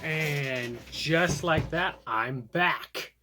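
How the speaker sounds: drawn-out showman's return; slow, playful ta-da; slow dramatic reveal. Real, not acted. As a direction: stretch it out like a big reveal. Reveal after shaving off beard.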